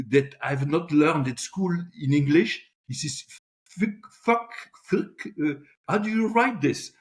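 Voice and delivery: high-pitched puzzled innocence; feigned surprise. Acted. Newcomer asking the executive about an unknown word, feigned surprise. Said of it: "I looked at him very surprised".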